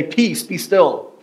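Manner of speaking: slow, measured calm command. Shown as a demonstration. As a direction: let each word settle slowly. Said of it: "Or some translations will say".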